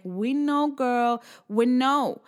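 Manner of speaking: mock the clients' knowing reply; clients' weary chorus. Coach voices her clients who have heard it often, mock knowing. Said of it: "if they're listening to this, they're like".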